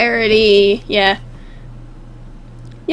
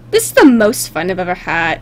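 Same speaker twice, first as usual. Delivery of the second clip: low-pitched monotone reading; deadpan character line; 7 semitones lower than usual. Acted. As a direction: read it low, at normal volume. First reading of pony's line.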